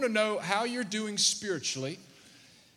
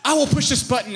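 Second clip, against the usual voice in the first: louder, hammed-up stern threat; mock stewardess warning; 5 dB louder than usual. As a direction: play the stewardess threatening naughty kids. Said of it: "I said, "She just said".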